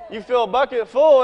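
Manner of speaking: normal talking voice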